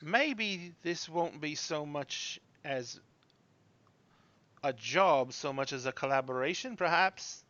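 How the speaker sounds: slow, hesitant, soft proposal; lightly voiced young gentleman. Young gentleman suggests working together, tentative and slow. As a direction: feel out the offer with long pauses.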